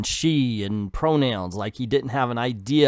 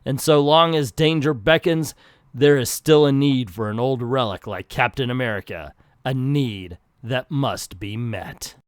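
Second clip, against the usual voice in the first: milk each line like a melodramatic announcer; overdramatic reading. Acted. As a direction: read it like an old-time dramatic narrator. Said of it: "Stan Lee could write the overdramatic".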